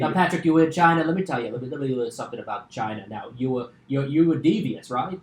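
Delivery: just a hint of the president's voice; Trump impression. Podcast host teases his guest about China in a lightly voiced Trump. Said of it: "Just hearing that devious in that voice".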